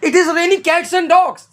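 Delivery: very slow, every word spelled out for learners; slow demo. Shown as a demonstration. Teacher introducing the idiom to students, slow and clear. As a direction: lay the phrase out word by word. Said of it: "अब हमारा अगला word क्या है?".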